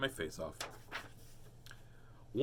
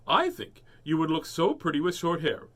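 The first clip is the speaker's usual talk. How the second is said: lightly voiced mother; mother's voice; 3 semitones higher, 6 dB louder than usual. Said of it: "why did he do his mother's voice".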